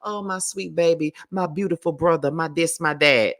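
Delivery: a hint of a syrupy, sing-song mother; mock her sugary pet names; condescending. Vlogger mocking Monique's condescending pet names, lightly sugary. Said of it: "that damn condescending".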